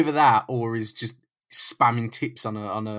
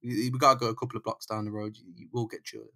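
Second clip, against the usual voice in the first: soft, hushed mock concern; suddenly soft and considerate, half whispered; mock caring thug; 7 dB quieter, faster than usual. Kidnapper gently telling Jameson to put a coat on, soft mock concern.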